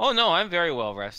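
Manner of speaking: self-assured, confident tone. Voicing Xavier answering that both need rest: in character, confident. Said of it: "Xavier says confidently".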